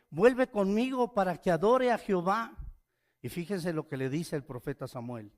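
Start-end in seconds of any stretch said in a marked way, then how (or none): 0.1-2.6 emphatic plea. Acted. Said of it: "le dice a Samuel".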